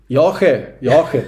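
repeating the word with a laugh; amused, offering it half as a joke; playful laughing repeat. Real, not acted. Playful word game answer.

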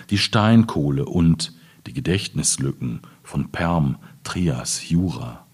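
slow, measured reading of a prose poem; literary reading. Acted. Closing the talk with a reading on soil memory, measured literary reading.

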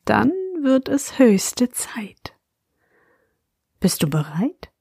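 whispering. A narrator's reading. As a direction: breathe the words to a sleepy child. Bedtime intro to listener.

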